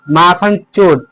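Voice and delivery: चोर given the weight after माखन; stress on चोर. Shown as a demonstration. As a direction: lean on the last word, चोर. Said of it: "चोर पर बल लगाए हैं". (चोर पर बल)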